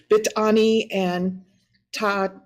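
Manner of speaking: slow, unsure Bitani, breaking off at Ta-; hesitant try at unfamiliar Navajo names; butchered clan names. Real, not acted. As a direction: sound out Bitani slowly, then get stuck. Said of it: "I'm so sorry for butchering that".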